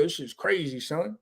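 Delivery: soft imitated Brooklyn accent. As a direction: quietly mimic a Brooklyn friend. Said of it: "bring his Brooklyn accent back out".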